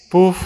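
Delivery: a wrinkled-nose pouf at a bad smell; disgusted puff. A narrator's reading. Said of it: "έκανε η κυρία Ελάφη".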